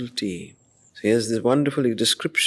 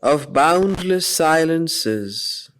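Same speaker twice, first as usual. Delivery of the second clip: poem recitation. Acted. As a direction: let each line hang in the silence. Reciting Savitri verse before commentary.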